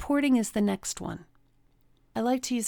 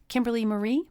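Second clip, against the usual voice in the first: displeased mom; 3 semitones higher, faster than usual. Retold or imitated. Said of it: "when she wasn't happy with me".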